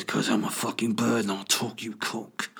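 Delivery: lightly put-on tough bird; Ray Winstone. Bird answering startled man, lightly imitated. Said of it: "Ray Winston vo-, voices the birds".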